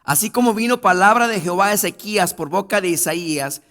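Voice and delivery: loud, high preacher's cry; fervent sermon climax; full-force preaching. Acted. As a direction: proclaim it to the whole church.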